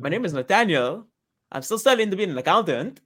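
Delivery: lightly put-on sketch character voice; a hint of a comic accountant character; Nathaniel. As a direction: mildly mimic a comedy catchphrase, swooping pitch. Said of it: "That's a deep cut from England".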